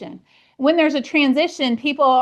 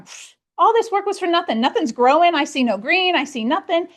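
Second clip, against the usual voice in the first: higher-pitched, exasperated pfft and grumble; mock discouraged farmer; 5 semitones higher than usual. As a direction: lightly voice a farmer giving up on his field. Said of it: "you're gonna".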